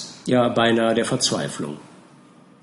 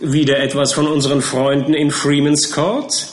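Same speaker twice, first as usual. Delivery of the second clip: eager; 4 semitones higher, 4 dB louder than usual. Acted. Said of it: "rief der kleine Mister Perker".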